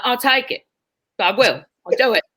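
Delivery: eager put-on British accent. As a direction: agree readily in a fake British accent. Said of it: "I was talking with a British accent".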